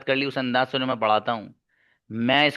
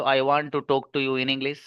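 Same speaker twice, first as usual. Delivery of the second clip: one breath; much slower than usual. Shown as a demonstration. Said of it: "एक सांस में कहा जाए तो".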